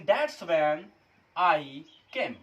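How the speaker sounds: careful English model sentence. Shown as a demonstration. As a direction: say it like a textbook example. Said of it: "फिर हम बोलेंगे".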